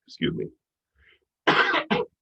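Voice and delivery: coughing, stuffed up; congested. Real, not acted. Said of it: "all congested".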